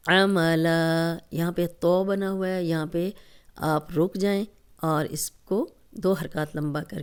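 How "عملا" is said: عملا stopping on a two-count final aa; slow recited demo. Shown as a demonstration. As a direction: recite عملا, hold the last alif two beats and stop. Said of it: "دو حرکات لمبا کر کے ہم stop کریں گے". (عملا، آخر میں دو حرکات لمبا کر کے وقف)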